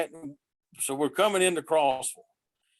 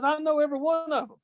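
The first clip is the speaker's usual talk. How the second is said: quick boast; 10 semitones higher, faster than usual. Retold or imitated. Retold boast, higher and faster.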